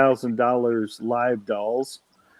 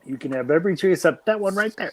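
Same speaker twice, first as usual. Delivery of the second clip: quick, higher-pitched mock warning; 4 semitones higher, faster than usual. Repeating the forbidden tree rule, quick mock warning. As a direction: rattle off the rule in playful warning.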